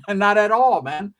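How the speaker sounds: a real laugh on the words. Real, not acted. Laughing dismissal.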